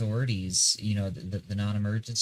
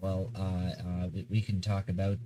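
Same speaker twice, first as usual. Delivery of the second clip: stumbling over words, sleep-deprived; halting and repeating words from no sleep; stammering. Real, not acted. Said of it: "I keep stammering because I've, I've not slept".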